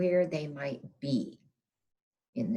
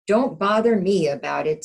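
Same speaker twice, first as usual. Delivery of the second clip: louder, irritated brush-off; the rooster waving her away; grumpy rooster; 3 semitones higher, 9 dB louder than usual. Acted.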